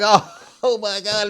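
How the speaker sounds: giggling through the words; laughing. Retold or imitated. Kids on the phone laughing at the recording. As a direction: laugh as you say it.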